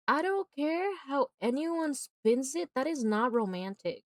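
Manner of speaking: high, slow, deliberate declaration; adamant, stretched-out words; emphatic insistence. Real, not acted. Emphatic rant against the ending.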